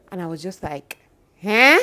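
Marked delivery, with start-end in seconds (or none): 1.4-1.8 loud, high startled huh; shocked, indignant huh; stunned huh. Retold or imitated. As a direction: blurt it out in disbelief. Stunned reply to threat.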